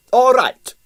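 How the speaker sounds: loud and high defiant outburst. A narrator's reading. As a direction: throw it back at her in defiance. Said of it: "said Strogonoff defiantly".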